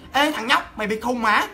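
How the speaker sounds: mock angry scolding. Angry passengers scolding boy.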